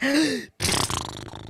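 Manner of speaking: long, falling rush of breath; deflating exhale. A narrator's reading. Storyteller showing the peacock deflated like a balloon, long sighing exhale. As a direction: let the air out like a balloon. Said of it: "a balloon that had lost all its air".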